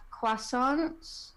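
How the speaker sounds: French-accented "croissants", drawn out; French pronunciation. Real, not acted. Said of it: "That was very French of you".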